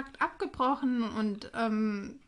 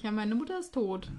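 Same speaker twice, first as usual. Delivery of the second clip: matter-of-fact, no emotion; deadpan, as if mentioning the weather; dry and casual; 2 semitones lower, 4 dB quieter than usual. Retold or imitated. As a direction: toss it off like nothing. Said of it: "So ganz normal, trocken".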